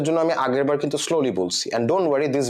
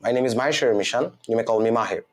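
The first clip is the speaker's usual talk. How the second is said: model exam answer; 4 semitones lower, slower than usual. Shown as a demonstration. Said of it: "এখানেও আমি এক line answer দিই না".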